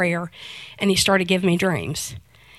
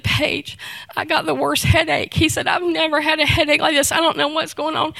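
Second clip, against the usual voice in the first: imitating crying teen; 5 semitones higher than usual. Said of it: "He's crying".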